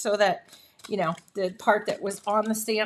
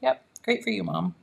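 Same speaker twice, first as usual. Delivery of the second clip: low, soft unimpressed mumble; deadpan cat voice, low and soft; bored cats; 6 semitones lower, 3 dB quieter than usual. Retold or imitated. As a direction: voice the cats who couldn't care less. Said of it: "And the cats are like".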